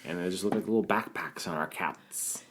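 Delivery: laughing through the words. Real, not acted. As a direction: giggle while describing it. Laughing at own idea.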